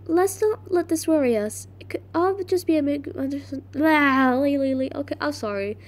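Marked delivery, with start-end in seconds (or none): 0.1-3.4 higher-pitched audition line; lightly voiced character read; Kara. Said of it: "she's Kara". 3.7-4.9 flubbed line dissolving into babble; voice cracking. Real, not acted. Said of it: "making me crack".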